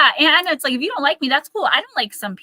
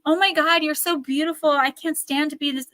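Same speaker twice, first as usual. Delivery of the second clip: higher, lightly syrupy imitation; fake-sweet gushing; 6 semitones higher than usual. Imitating jealous acquaintances praising her looks, mock gush. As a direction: gush with a hint of envy.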